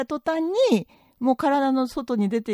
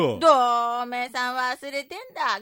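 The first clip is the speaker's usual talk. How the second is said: indignant wife in a skit. Acted. Wife tells husband who does all housework, indignant. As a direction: give your husband an indignant telling-off. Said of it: "でけえ声出して".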